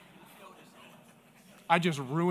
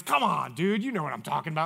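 exasperated protest. Retold or imitated. Retold protest at being teased.

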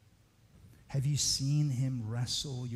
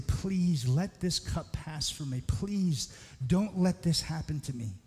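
higher-pitched, earnest plea; pleading; 5 semitones higher than usual. Acted. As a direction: plead in prayer, voice lifted. Voices Jesus pleading in the darkness.

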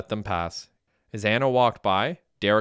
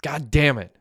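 a raised, higher exclamation; exclaiming; 6 semitones higher, 4 dB louder than usual. A narrator's reading. Friend hearing his house got robbed, exclaiming loudly. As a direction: burst out in frustration. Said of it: "Arlov exclaimed".

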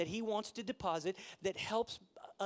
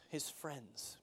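whispered aside; 5 semitones lower, 10 dB quieter than usual. Acted. Aside about Rehoboam's buddies.

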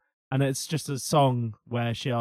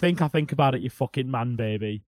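Alan Moore impression. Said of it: "we both do an Alan Moore impression".

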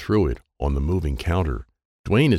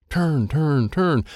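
excited; 8 semitones higher, much slower than usual. A narrator's reading. Cranking a toy excitedly.

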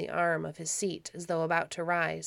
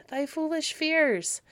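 scoffing; 10 semitones higher, 4 dB louder, slower than usual. Acted. Baron dismissing her fears.

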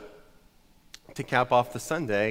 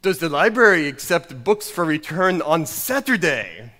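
put-on pointed question in a hammy Scottish accent; mock Scottish reproach; old Scottish pastor. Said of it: "And then the pastor concluded".

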